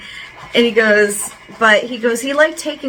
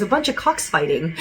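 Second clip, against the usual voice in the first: laughing; 3 semitones lower, 3 dB quieter than usual. Retold or imitated. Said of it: "he goes".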